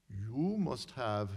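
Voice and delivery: put-on slow, measured Hungarian accent; a mentor's slow Hungarian-accented advice. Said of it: "in her Hungarian accent".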